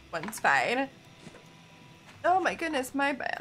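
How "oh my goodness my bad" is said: hiccuping mid-sentence; hiccups. Real, not acted. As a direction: talk through hiccups. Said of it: "I got the hiccups".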